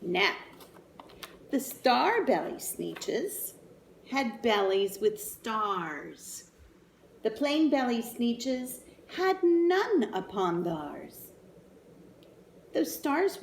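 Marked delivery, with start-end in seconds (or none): 1.5-11.3 put-on slow, sing-song story reading for kids; storybook reading. A narrator's reading. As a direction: read it like a bedtime picture book. Reading story aloud to children.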